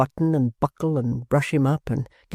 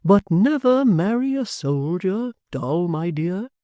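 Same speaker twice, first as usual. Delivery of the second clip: fond father; 5 semitones higher, 3 dB louder, slower than usual. Acted. Father teasing daughter.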